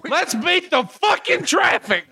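impatient fan. Acted. Voicing bored fans.

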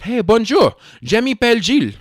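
loud, high, eager tourist French; overdone French hello to a driver; attempted French greeting.

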